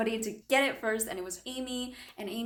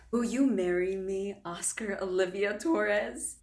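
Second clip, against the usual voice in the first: solemn proposal; slower than usual. Acted. Acts Ethan's formal proposal.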